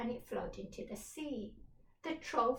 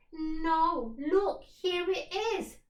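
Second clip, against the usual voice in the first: high, loud pirate cry of discovery; a girl pirate spotting the chest; excited cry; 6 semitones higher, 9 dB louder, slower than usual. Acted. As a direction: shout it out with glee. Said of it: "cried Pe".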